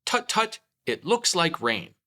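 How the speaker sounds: high, loud fussy tut-tutting; mock worried gentleman. Pooh teaching Christopher Robin the rain line, fussy tutting. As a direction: tut it out like a fretting gent under an umbrella. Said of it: "say, 'Tut, tut".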